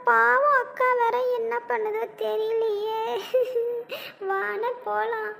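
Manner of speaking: fading into soft crying; tearful. Acted. Relative worries about the sister and begs him home, teary.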